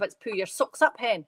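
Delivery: light West Coast Scottish accent on "pull your socks up"; "pull your socks up, hen" in a lightly put-on Scottish accent, ending in a rise; broad Scottish accent. Shown as a demonstration. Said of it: "It's a really broad".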